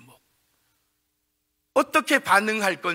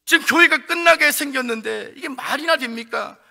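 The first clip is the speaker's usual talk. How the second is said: complaining to God; 4 semitones higher than usual. Acted. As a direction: argue with God in disbelief. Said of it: "이렇게 하나님 앞에 원망하며 따지면서". (하나님께 원망하며 따지듯이)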